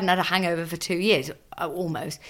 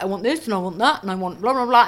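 put-on demanding kid; faster than usual. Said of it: "some kids who are like".

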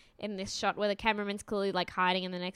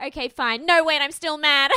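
hammed-up flip from giving in to protest; mock indignation; 6 semitones higher, 10 dB louder than usual. Mimicking a couple's back and forth, mock indignant. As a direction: burst out louder and higher on the reversal.

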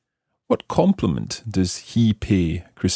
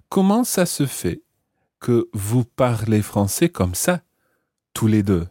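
broken into phrases. Shown as a demonstration. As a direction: say it phrase by phrase for learners. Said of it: "He says".

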